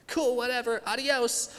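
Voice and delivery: high, breezy brush-off; sassy dismissive. Retold or imitated. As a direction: toss it off like a bratty teen. Defiant girl mocking judge.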